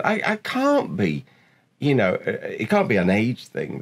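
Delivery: high, drawn-out mock wail; retold tearful protest. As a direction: plead in disbelief, recalling being in tears. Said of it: "I burst into tears".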